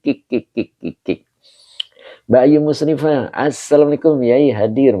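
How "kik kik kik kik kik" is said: light mock giggle "kik kik"; imitated giggle. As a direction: copy the viewer's little laugh, playfully. (tiruan tawa kecil "kik kik")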